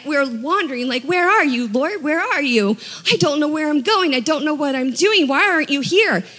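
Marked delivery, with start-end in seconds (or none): 1.0-6.2 pleading, a bit higher, lost and worried; higher, anxious plea; lost sheep crying out. Retold or imitated. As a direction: call out for the Lord like a lost sheep.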